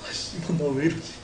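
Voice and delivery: tipsy, dragging the words. Real, not acted. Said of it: "술 취했다".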